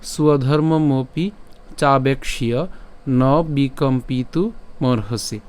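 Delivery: slow, chunked Sanskrit recitation; measured model reading of a shloka line; verse line recitation. Shown as a demonstration. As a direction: recite the line deliberately, phrase by phrase. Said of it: "আমি যদি আবার প্রথম লাইনটা বলি".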